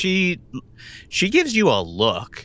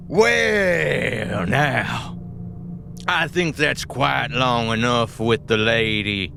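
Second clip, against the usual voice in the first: a touch of a smarmy boss man; lightly voiced southern boss dismissing her; Boyd's drawl. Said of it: "it is a lesson in acting".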